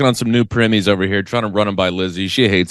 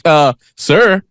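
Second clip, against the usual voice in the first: a hint of a scolding clerk, higher; mock cashier demanding payment; lightly voiced stern barista; 6 semitones higher than usual. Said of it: "She's like".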